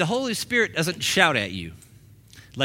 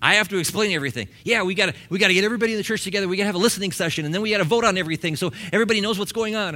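mock flustered pastor; 5 semitones higher, much faster than usual. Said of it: "And I'm like".

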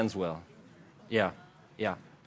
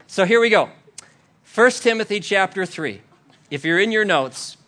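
mock preaching start; 6 semitones higher, 6 dB louder than usual. Mock start of her sermon.

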